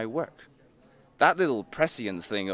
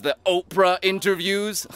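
gleeful mockery; 8 semitones higher, 5 dB louder than usual. Mocking list building to climax.

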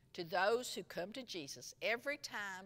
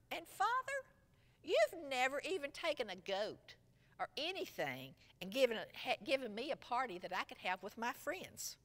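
bitter complaint; 4 semitones higher than usual. Retold or imitated. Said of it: "His bitterness could be heard".

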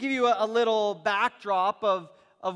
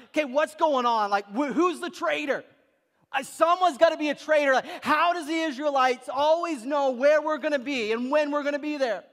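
raised, agitated demand from the king; mock furious king; 3 semitones higher than usual. King of Aram to his leaders, agitated accusing tone. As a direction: play the suspicious king hunting a traitor.

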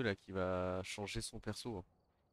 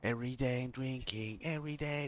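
put-on Russian accent; 4 semitones higher than usual. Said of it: "Cet accent est raciste".

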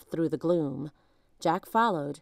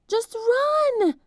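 much higher, louder shout; urgent cry; 6 dB louder than usual. A narrator's reading. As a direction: push him to run. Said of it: "cried Annie".

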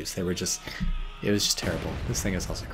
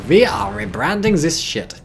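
put-on botched Soviet voice in a German accent; slow, higher, emphatic German accent; 6 semitones higher, 6 dB louder, slower than usual. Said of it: "That was the German accent".

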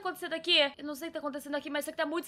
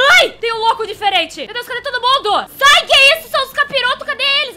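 being chased; 7 semitones higher, 11 dB louder than usual. Real, not acted. New enemies appear.

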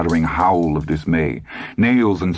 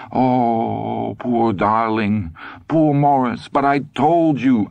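slow, high pitying wail; drawn-out, pitched-up lament turning to scolding; distraught wife; 6 semitones higher, much slower than usual. A narrator's reading. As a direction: coo pity, then reproach him. Weeping wife pities and reproaches husband.

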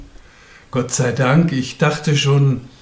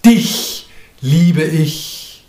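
louder, slow, fervent call; called out fervently; 3 semitones higher, 4 dB louder, much slower than usual. Acted. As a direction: proclaim the love slowly. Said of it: "rufe mir erfüllt und durchdrungen zu". (laut und inbrünstig gerufen)

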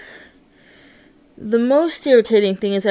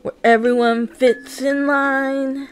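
poem recital. Acted. Poet voicing the prison of gender, measured verse.

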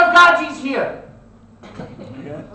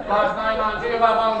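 mock Cantonese accent; 6 semitones lower, 4 dB quieter than usual. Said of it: "sounded like he was Cantonese".

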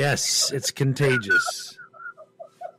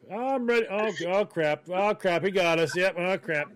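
voicing the fish; 6 semitones higher than usual. Fish voiced in joke scene.

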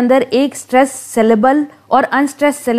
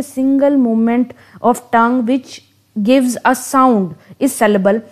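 reads the definition word by word, very slowly; slow dictation; much slower than usual. Acted. Teacher dictating a definition of meter to students, very slow. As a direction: spell it out slowly so students can write it down.

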